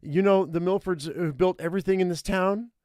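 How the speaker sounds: put-on high girl voice, name-dropping; boastful teenage girl. Girl boasts of her family name.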